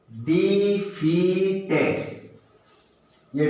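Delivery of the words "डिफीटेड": drawn out; slowly sounded out; slow syllable split. Shown as a demonstration. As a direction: stretch each part. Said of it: "join the three sounds".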